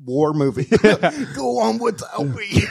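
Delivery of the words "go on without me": dying words. Retold or imitated. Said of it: "dying in a war movie".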